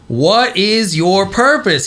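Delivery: mock yell. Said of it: "He's yelling".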